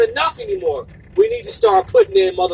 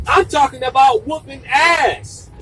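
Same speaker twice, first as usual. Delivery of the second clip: angry declaration; 6 semitones lower, 3 dB louder than usual. Real, not acted. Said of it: "I'm angry".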